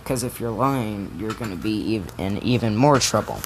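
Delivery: quiet, serious scolding; stern teacher. Retold or imitated. Teacher warning Bakugo, quiet and stern. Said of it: "she's just like".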